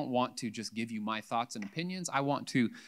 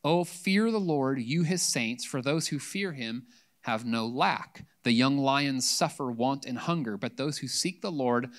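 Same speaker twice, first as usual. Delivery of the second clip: scripture reading; 3 dB louder than usual. Acted. Pastor reading Psalm 34 to the congregation: measured scripture reading. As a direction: read it aloud with weight to the church.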